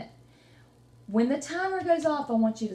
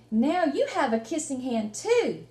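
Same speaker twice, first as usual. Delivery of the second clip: little Chester voice. Acted. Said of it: "kinda talk like Chester".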